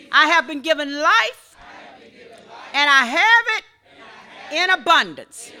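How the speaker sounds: loud, laughing shout of praise; joyful shout. Real, not acted. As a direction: proclaim it with joy.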